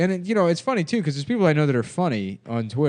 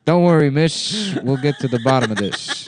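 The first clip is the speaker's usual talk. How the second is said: hardball detective; 2 semitones higher, 4 dB louder than usual. Acted. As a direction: play the hard-boiled gumshoe. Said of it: "It's a hardball detective".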